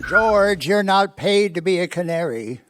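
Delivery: gruff scolding. Acted. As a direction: bark at the boy to stop singing. Boss scolding boy.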